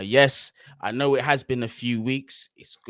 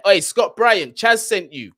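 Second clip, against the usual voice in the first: calling out; 8 semitones higher, 10 dB louder, slower than usual. Real, not acted. Shouting out a viewer in chat.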